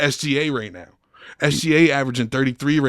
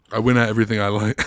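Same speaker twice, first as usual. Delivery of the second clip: mock fortune cookie; faster than usual. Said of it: "dumbass fortune cookie quotes".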